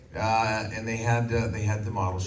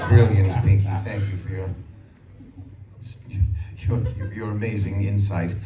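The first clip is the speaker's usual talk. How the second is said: sarcastic Brain; 5 dB louder than usual. Acted.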